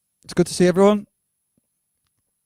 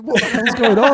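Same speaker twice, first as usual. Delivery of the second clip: surprised; 11 semitones higher, 8 dB louder than usual. Retold or imitated. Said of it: "I was like".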